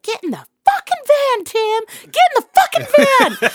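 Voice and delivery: urgent screaming from the driver's seat; frantic yell. Retold or imitated. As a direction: yell at him to get in before it's too late. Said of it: "I was like".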